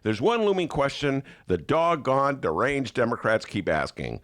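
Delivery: mock right-wing commentator, sneering; sarcastic read. Host reading a sarcastic column to listeners, sneering. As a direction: read it dripping with fake outrage. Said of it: "it's like sarcasm".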